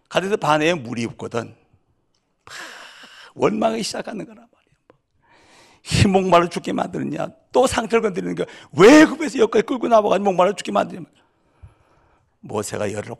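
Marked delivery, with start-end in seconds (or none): 2.5-6.1 whisper. Real, not acted. Whispered aside in sermon. 6.1-11.0 mock complaint. Crowd's complaint quoted again.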